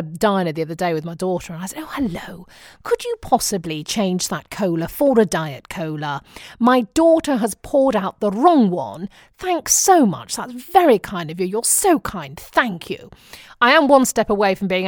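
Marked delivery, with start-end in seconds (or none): 1.8-13.1 lightly put-on Queen's English, over-polite; imitation royal English. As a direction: enunciate carefully like a mock royal. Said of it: "I found that talking like the Queen".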